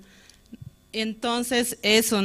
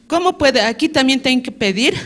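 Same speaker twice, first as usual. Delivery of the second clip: indignant, raised, higher voice; indignant inner cry; 4 semitones higher, 4 dB louder than usual. Retold or imitated. Retelling her angry thoughts to God, indignant raised voice. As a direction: protest out loud to God, hurt and fed up. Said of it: "¿Por qué me trajo Dios".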